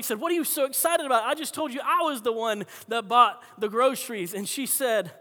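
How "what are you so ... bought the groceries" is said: raised, exasperated mock outburst; retold anger. Neighbor to the celebrating lady, mock angry protest. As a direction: imitate an annoyed man protesting. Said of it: "the man got angry".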